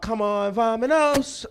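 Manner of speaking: put-on high, eager kids' show cheer; Dora the Explorer. High comic imitating a kids' TV show, rallying the viewers brightly. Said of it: "I'm watching Dora the Explorer".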